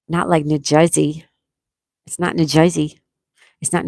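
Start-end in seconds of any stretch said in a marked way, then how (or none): 0.4-1.2 lightly imitated New Jersey accent. Shown as a demonstration. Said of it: "the Jersey accent". 2.3-3.0 lightly imitated New Jersey accent. Shown as a demonstration. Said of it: "the Jersey accent".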